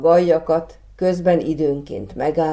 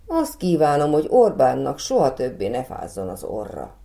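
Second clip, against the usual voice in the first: mild exclamation. Acted. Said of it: "kiáltott fel".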